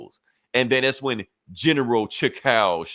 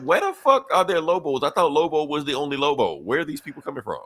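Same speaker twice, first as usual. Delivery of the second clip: high, startled outburst at the extra Lobos; retelling the heroes' shock, pitched up; shocked disbelief; 4 semitones higher than usual. Retold or imitated. Heroes stunned to find more Lobos, high startled disbelief. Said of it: "they're just shocked like that".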